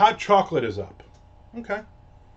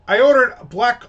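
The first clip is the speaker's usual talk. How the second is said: louder, higher, losing patience; getting loud; 8 semitones higher, 9 dB louder than usual. Retold or imitated. Retelling to a friend, annoyed customer getting loud at barista. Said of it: "now I'm getting loud".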